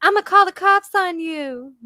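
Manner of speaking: high, loud, slow whine; prissy threatening newcomer. Retold or imitated. Newcomer threatening neighbour, high indignant slow whine. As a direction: drag out the threat. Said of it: "Now it's".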